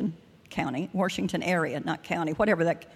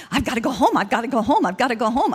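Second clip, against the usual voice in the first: imitating a frantic, slightly louder plea to get home; retold hollering; 2 semitones higher, 4 dB louder, faster than usual. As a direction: replay the panic in the car, a bit raised. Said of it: "I'm hollering in the car".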